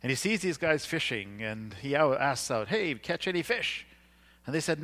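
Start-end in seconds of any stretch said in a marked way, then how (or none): 2.7-3.9 mock calling out. Calling out to fishermen on the lake.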